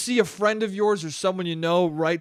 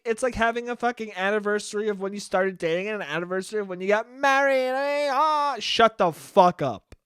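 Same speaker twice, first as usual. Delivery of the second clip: Italian American voice; 7 semitones higher than usual. Acted. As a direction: ham up a New Jersey Italian American gushing. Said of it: "I'm allowed to do that voice. That's the voice of an Italian American".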